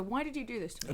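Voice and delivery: chewing pizza while talking; mouth full. Real, not acted. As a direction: speak through a mouthful of pizza. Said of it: "I've got a mouthful of pizza".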